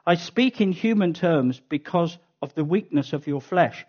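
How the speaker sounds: measured, solemn Bible reading; scripture reading. Acted. Preacher reading Romans to the congregation, solemn. Reads scripture passage aloud.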